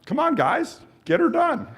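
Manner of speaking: high, eager call to keep going; cheering them on. Real, not acted. Coach urging walkers to push, high and eager. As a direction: pump the class up.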